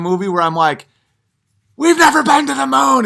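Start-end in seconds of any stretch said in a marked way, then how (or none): 1.8-3.1 very high, loud yelled declaration; manic shout. Acted. Comedian at a party exploding over the moon landing, loud high shout. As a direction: blurt it like a man unhinged.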